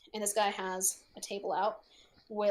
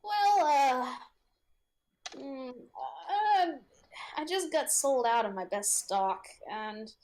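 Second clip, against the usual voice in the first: wheezy merchant. Acted. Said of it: "kind of a little bit of a wheeze".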